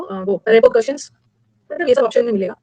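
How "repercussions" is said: slow drawn out word. Shown as a demonstration. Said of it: "दूसरा word याद रखो".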